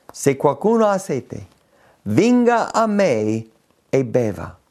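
lettura biblica scandita, con enfasi sulle parole di Gesù; lettura solenne delle Scritture. Acted. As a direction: leggi il versetto come una proclamazione. Rilegge il versetto. (lettura solenne della Bibbia)

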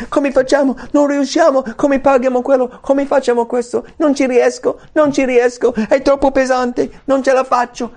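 high, insistent mock panic; acted worrying. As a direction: pile up the worries frantically. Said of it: "pensieri dove tu pensi ai problemi".

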